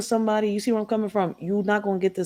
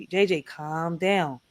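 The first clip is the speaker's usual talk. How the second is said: slow, soft, soothing plea; mother calming her angry son, slow and soothing; calming him down; 4 semitones lower, 4 dB quieter, much slower than usual. Retold or imitated. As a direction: ease him down slowly, like settling a teen. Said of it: "I'm like".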